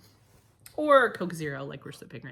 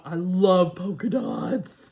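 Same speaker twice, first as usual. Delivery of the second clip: whispering; 4 semitones lower, 5 dB louder, much slower than usual. Real, not acted. Hushed delight at mug.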